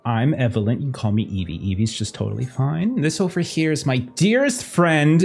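a hint of a gushing hostess; chummy socialite. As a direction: sweetly introduce your friends. Evelyn introducing herself.

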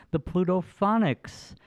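the band name said slowly and carefully; slow, careful band-name introduction; careful pronunciation. Shown as a demonstration. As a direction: announce the band name slowly, each syllable in place. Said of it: "saying it the right way".

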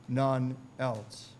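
slow, measured Bible reading, falling at the end; weighty pulpit verse; announced scripture text. Retold or imitated. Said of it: "He announced his text".

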